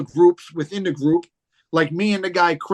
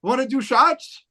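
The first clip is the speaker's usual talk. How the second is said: soft-spoken Mel; 7 semitones higher than usual. Retold or imitated. Imitating Mel inviting him to do shots, soft and friendly. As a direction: mildly mimic a friendly big guy offering drinks. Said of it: "He was like".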